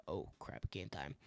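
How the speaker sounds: low, whispered thrill before the shot; hushed game time. Retold or imitated. Hunter hearing the buck coming through the woods, hushed thrill. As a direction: breathe it out as the buck comes through.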